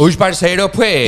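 playful mock Colombian accent. Host greets the news of Colombian friends, mock Colombian accent. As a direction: put on a light Colombian lilt.

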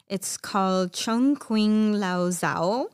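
slow, careful try at "Chongqing Lao Zhao"; tentative reading of the Chinese name; careful attempt at Chinese. Shown as a demonstration. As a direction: sound out "Chongqing Lao Zhao" slowly and unsure. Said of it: "I'm not gonna pronounce this correctly".

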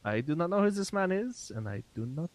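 lightly voiced character, starting high then dropping; wary Mossy. Mossy warning the group behind about a stranger, wary. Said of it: "and he's like".

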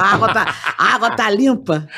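laughing. Retold or imitated. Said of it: "Ele falou".

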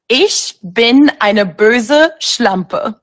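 very slow, each German word spelled out; slow teaching repeat. Shown as a demonstration. Teaching the host a phrase, slow deliberate German. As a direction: spell out "Ich bin eine böse Schlampe" slowly for a learner. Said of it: "Can you teach me how to say something?".

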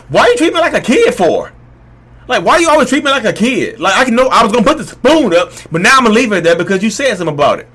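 high, loud indignant protest; acted defensive outburst. Voices his defensive overreaction to request.

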